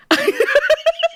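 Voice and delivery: high loud cackle; shrieking laugh. Real, not acted.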